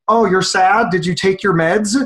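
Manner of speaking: imitating a glib, questioning helper; mock clueless concern. Bad helper to someone sad, mock clueless questioning. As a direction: ask it like an oblivious do-gooder. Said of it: "we don't say stupid things like".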